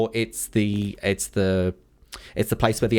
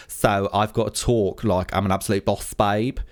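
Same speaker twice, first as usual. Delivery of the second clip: put-on light boss-babe Essex accent. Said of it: "requested that I do everything in an Essex accent".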